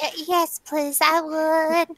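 put-on slow, drawn-out accented reply; drawling fake accent, stretching the last word; put-on customer accent. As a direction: play along as a customer in a mock accent.

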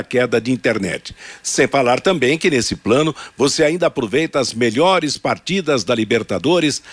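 ad read. Acted. Reads sponsor ad.

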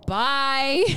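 high-pitched Southern accent. Shown as a demonstration. Friend demonstrating a Southern accent for the others, high and Southern. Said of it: "can I do a Southern accent".

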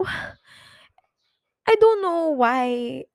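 slow breathy whisper after a sigh. Real, not acted. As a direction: barely breathe it, drained. Sigh, then hushed admission.

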